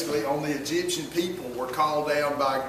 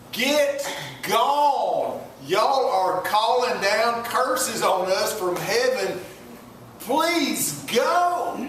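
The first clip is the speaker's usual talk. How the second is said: higher, pleading voice of the Egyptians; 3 semitones higher, slower than usual. Retold or imitated. Egyptians urging the Israelites away, pleading. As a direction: beg them to just leave.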